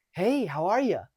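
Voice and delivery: put-on high, talking-to-a-kid greeting; too friendly. Shown as a demonstration. Coach shows the wrong hello, too friendly. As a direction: gush as if to a kid. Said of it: "That's too friendly".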